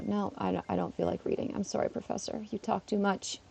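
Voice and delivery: muttered aside. Real, not acted. Teasing the professor under breath.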